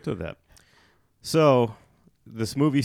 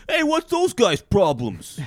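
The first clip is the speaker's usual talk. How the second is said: imitating the boyfriend; 12 semitones higher, 7 dB louder, slower than usual. Retelling the boyfriend's line.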